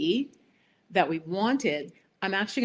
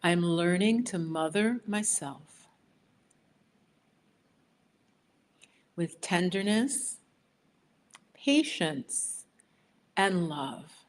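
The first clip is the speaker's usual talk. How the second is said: phrase by phrase, for the group to echo; steady call for them to repeat after you; affirmation to repeat; slower than usual. Shown as a demonstration. Leading viewers to repeat the affirmation, phrase by phrase. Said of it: "repeat it after me".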